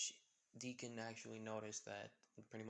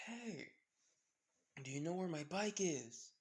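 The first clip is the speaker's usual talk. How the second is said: calling out; 6 semitones higher, 4 dB louder, slower than usual. Acted. Izuku shouts after fleeing guy.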